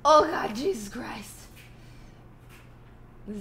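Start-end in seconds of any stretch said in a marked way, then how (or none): 0.0-1.4 hiccup-broken exclamation; blurting through a hiccup. Real, not acted. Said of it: "now I can't stop".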